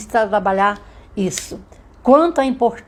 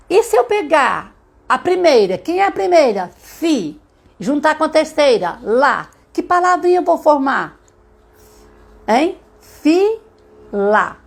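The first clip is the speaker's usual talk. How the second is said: high, louder singsong prompting; teacher quizzing a child; 7 semitones higher, 3 dB louder than usual. Shown as a demonstration. Teacher asking a child which word syllables form, coaxing. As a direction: lead a small child to the answer, pitched up.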